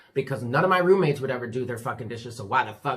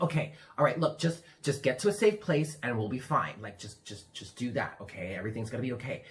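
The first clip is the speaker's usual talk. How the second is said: soft, reassuring, fading quiet; calm the bug down gently; soothing; 3 semitones lower, 4 dB quieter than usual. Retold or imitated. Soothing the cockroach.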